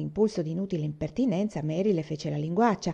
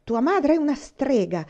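loud, higher, furious jab; 7 semitones higher, 4 dB louder than usual. A narrator's reading. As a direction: hurl it at her in anger. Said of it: "le aveva detto furiosa". (detto furiosa, più alto e più forte)

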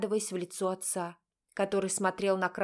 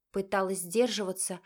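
ordinary delivery

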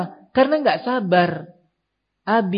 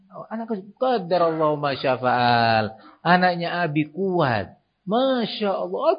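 calm parent. Acted. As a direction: comfort and praise the child calmly. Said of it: "Coba si abi dan ummi tenang".

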